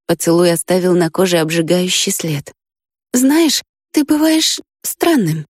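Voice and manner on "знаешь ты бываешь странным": put-on higher, slow girlish voice; girl's voice, musing. A narrator's reading. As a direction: linger over each word like a sleepy girl. Risha voiced by narrator.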